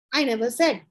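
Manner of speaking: "I never said" as a finished sentence, falling on "said"; broken sentence. Shown as a demonstration. Teacher cutting the example short, full stop on "said". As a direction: stop firmly after "said". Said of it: "You break the sentence again and say".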